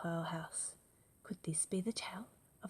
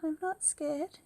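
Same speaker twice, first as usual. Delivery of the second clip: put-on high, loud plucky child voice; brave little child; 12 semitones higher, 4 dB louder than usual. Gruffalo's child boasting she is not scared, high and loud. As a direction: puff up like a brave little kid. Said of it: "said the Gruffalo's child".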